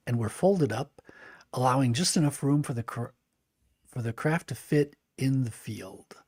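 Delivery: steady storybook reading voice; narrator voice. Shown as a demonstration. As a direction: read it like an audiobook narrator. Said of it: "my narrator voice".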